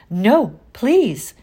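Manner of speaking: high, pleading no please; frightened plea. A narrator's reading. Girl begging teacher not to write home, frightened. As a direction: beg her not to, frightened. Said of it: "very frightened".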